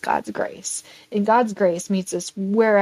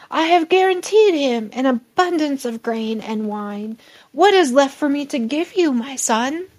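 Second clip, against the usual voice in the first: a lightly voiced old father, raised; helpless old father; 5 semitones higher, 3 dB louder than usual. Isaac answering Esau's plea, lightly voiced old father. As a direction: explain there is nothing left.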